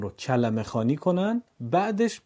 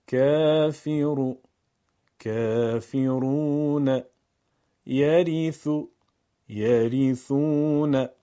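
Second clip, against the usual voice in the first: slow, louder chanted words; Quran recitation; 3 dB louder, much slower than usual. Shown as a demonstration. Teacher recites paired comparison words. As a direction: hold the vav two beats. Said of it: "واو مدی دو ضربی".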